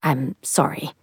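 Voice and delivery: mildly grudging, subdued apology. A narrator's reading. Culver is made to apologize to the lady, grudging. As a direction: give the apology reluctantly, under-voiced. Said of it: "said in a grudging voice".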